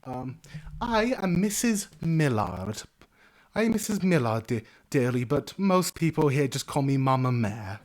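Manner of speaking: high chattering halfling landlady; motherly innkeeper. Acted. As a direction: introduce yourself with fussy warmth. Innkeeper introduces herself.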